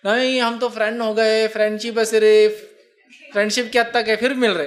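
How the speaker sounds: playfully mimicked self-justifying friends; mock protest. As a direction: imitate friends insisting it's innocent. Mimics friends excusing their friendship.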